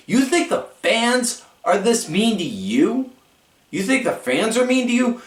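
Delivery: high, scolding angry-mom rant. Retold or imitated. Candice scolding Maxine like an angry mom. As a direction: tear into her like a furious mother. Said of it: "started yelling at her like an angry mom".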